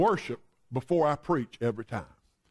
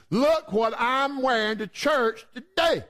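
lightly voiced excited girl, drawn out and a bit higher; excited daughter; 4 semitones higher, slower than usual. Daughter showing her new dress to mom, lightly voiced excitement. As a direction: show off a new outfit proudly.

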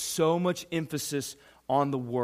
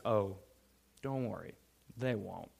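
a lightly voiced jailer, soft and offhand; jailer's reply; 6 semitones lower, 9 dB quieter than usual. Pastor voices the jailer reassuring the guards, soft and casual. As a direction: toss it off like a smug guard.

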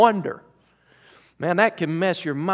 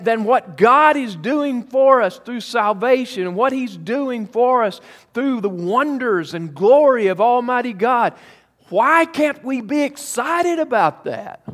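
rising preacher excitement; 5 semitones higher than usual. Acted. Preacher urging joyful excitement.

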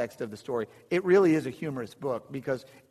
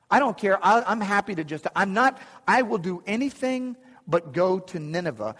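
higher, louder retold defiance; stubborn refusal; 4 semitones higher, 4 dB louder than usual. Preacher voicing Jonah refusing Nineveh, emphatic and stubborn. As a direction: dig in, imitating a stubborn prophet.

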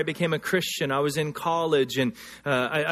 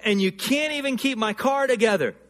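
angry at God; 5 semitones higher than usual. Retold or imitated. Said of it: "And I got angry at God".

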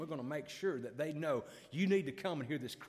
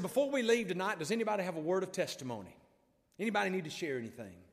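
raised voice to a congregation, easing off; calling out; 4 semitones higher, 5 dB louder than usual. Retold or imitated. Preacher asks the church for testimony, calling out. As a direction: open high and loud, then settle.

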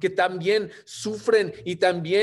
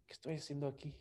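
muttered doubt; 19 dB quieter, much faster than usual. Retold or imitated. Alone, asking himself.

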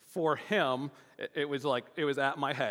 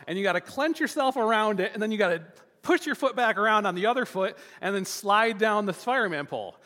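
teaching dad; 6 semitones higher than usual. Retold or imitated. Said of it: "I'm teaching him".

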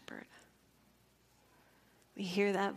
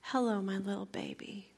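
tender greeting. Retold or imitated. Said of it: "all I knew to do is I just said".

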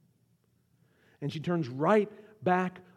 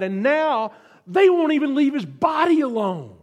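voicing a grieving Mary, building higher and louder; rising from wonder to outrage at the stolen body; Mary's thoughts; 5 semitones higher, 6 dB louder than usual. Grieving Mary, in her own mind, building to a cry. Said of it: "Think what must have been running through her mind".

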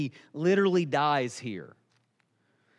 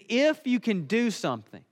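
acted plea, higher then slowing down; begging; 3 semitones higher than usual. Father begs Jesus to do something, pleading. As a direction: beg urgently, dragging out the please. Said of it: "he's begging Jesus to do something".

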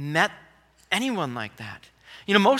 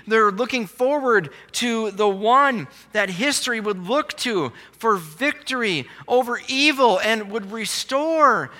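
raised, driving sermon delivery; impassioned preaching; 4 semitones higher than usual. Real, not acted. Preacher telling of the long-promised one, impassioned preaching. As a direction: preach it higher and with force, punching key words.

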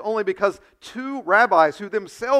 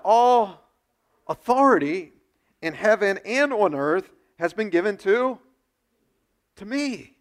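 proclaiming scripture; 3 dB louder than usual. Retold or imitated. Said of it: "he says this in Matthew".

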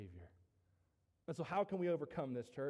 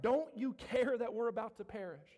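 mildly desperate cry, a little louder; 3 semitones higher, 5 dB louder than usual. Acted. Fishermen to Jesus in the storm, crying out. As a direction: cry out in protest to a sleeping master. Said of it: "for them to cry out".

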